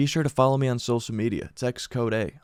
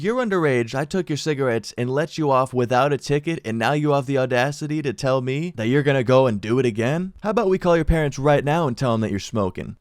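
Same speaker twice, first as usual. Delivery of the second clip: angry scolding; 3 semitones higher than usual. Retold or imitated. Cop scolding the teen and threatening to call his parents, angry. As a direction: scold him, building outrage.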